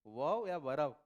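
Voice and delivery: teacher asks loudly, hitting "वर्ब" and "verb"; loud teacher question. Shown as a demonstration. Teacher quizzes students: "वर्ब" or "verb", loud. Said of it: "तो क्या बोलोगे".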